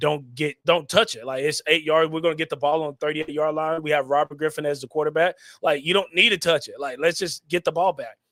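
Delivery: ordinary delivery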